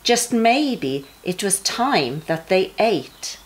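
lively rhyming storybook read-aloud; sing-song story voice for kids at bedtime; reading to children. A narrator's reading. Parent reading a rhyming Bible story to young children, bouncy and expressive.

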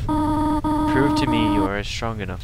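a hint of a stern mother; Toriel voice. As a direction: read it like a gentle but firm guardian. Reads Toriel's lines in voice.

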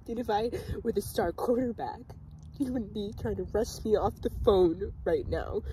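emotional grievance at fuller volume; agitated hurt. Acted. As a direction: let the hurt spill out between breaths. Second take of the complaint, more agitated.

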